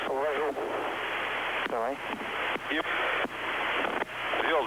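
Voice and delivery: astronaut radio. Real, not acted. Crew radio from space station.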